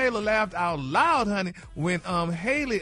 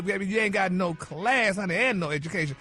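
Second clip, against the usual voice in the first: mock scolding. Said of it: "wag her finger at Taylor".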